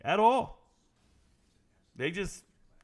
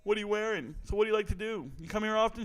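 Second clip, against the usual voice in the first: higher-pitched mock awkward small talk; imitating nervous guy; 6 semitones higher than usual.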